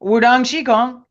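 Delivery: "Wudang Qigong" as woo-DAHNG shee-GONG; correct pronunciation. Shown as a demonstration. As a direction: say "Wudang Qigong" with an open ah vowel. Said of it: "I know I was gonna say it wrong".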